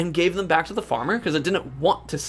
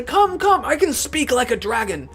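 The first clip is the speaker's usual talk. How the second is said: eager calling; 6 semitones higher than usual. Acted. Dog calling other dogs.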